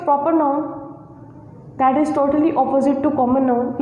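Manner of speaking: slow, spaced dictation for note-taking; teacher dictating notes slowly. Shown as a demonstration. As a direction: spell out each phrase slowly so students can write.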